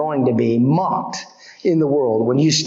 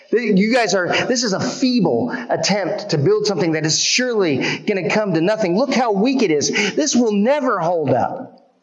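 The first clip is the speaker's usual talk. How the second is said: sneering taunt, pitched up; mocking enemy; 5 semitones higher than usual. Preacher voicing Sanballat mocking the wall builders, sneering. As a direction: scoff at the builders' feeble work. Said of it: "they start to mock the work".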